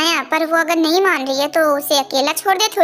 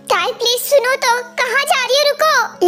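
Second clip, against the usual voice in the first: higher, urgent calling out; calling after her; 5 semitones higher than usual. Acted. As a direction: stop her before she walks away. Calls after leaving Tai. (जाती हुई ताई को रोकने के लिए ऊँची आवाज़ में पुकारना)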